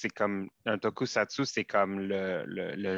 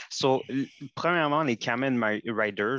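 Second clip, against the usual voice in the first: presenter voice; 3 semitones higher, 3 dB louder than usual. Acted. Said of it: "essaye de faire ton présentateur".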